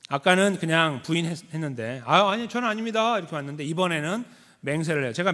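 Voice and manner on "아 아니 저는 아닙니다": a quick startled denial, higher; mock panicky Peter; flustered denial. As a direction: deny it in a hurry, caught off guard. Peter's first denial acted out.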